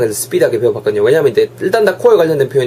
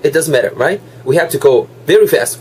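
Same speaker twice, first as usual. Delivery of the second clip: rushed speech; much slower than usual. Real, not acted. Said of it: "오늘 말이 완전 빠른데요".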